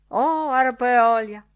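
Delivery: drawn-out high cry; loud exclamation. A narrator's reading. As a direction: call it out big and slow. Mock cry before twanging floss.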